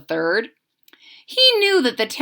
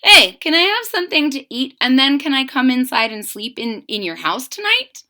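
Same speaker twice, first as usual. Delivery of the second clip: pretend stranger asking; 3 semitones higher than usual.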